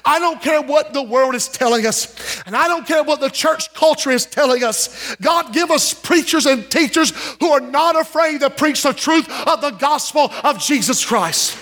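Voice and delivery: bold, rising preaching; preacher taking a bold stand before the church; bold declaration. Real, not acted. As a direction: proclaim it without backing down. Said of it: "I'm gonna say this boldly".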